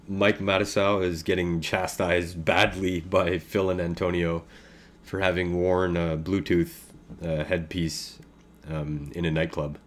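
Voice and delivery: talking while chewing gum. Real, not acted. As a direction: speak around a wad of gum. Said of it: "Excuse the gum chewing".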